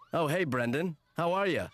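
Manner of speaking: breezy, cheerful greeting; smug coach. Acted. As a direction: play it casual and pleased. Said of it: "I like when you do both parts".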